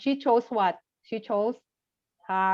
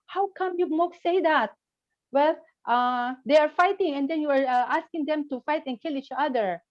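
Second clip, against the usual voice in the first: angrier passerby; 6 semitones higher than usual. Retold or imitated. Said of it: "the passerby was angrier".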